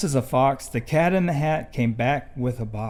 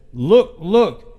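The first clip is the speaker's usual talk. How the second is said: sudden loud cry of alarm, a touch higher; alarmed fish; 4 semitones higher, 7 dB louder than usual. Acted. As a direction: shout the warning the moment you see mother. Fish sees mother coming.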